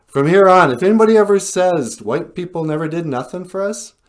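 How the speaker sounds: mock-grand announcement; emphatic declaration. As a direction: proclaim it to the whole group. Acted Indian making comic declaration.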